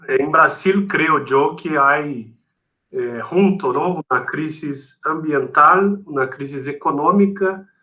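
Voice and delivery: Spanish with a Brazilian Portuguese accent; Portuñol. Real, not acted. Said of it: "perdón por el portuñol".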